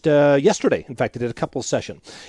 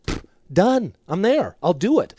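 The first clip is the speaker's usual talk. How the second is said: higher-pitched, eager acted agreement; 4 semitones higher than usual. Husband answers his wife's specific request, eagerly agreeing. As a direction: act out a husband readily agreeing.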